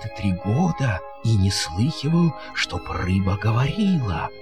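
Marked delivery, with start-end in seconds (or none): none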